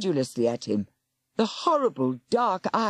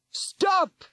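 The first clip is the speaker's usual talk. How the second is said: sharp, much higher yell. Acted. Old lady yelling at a man, sharp yell. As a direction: stop him with one cry. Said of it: "she yelled".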